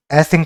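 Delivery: "ऐसिंग" set apart as one chunk; broken-up syllables. Shown as a demonstration. Teacher breaking up embarrassing for students, "ऐसिंग" as a separate ending. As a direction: say "ऐसिंग" alone, as the closing piece of a word. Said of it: "इसको भी ऐसे break कर लो".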